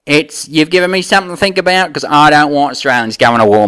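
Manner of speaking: lightly put-on Aussie accent; Australian bloke. Aussie guest answering the host about the war, mild Australian accent. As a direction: play the Aussie mate, easygoing. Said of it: "Australian, what are we calling you now?".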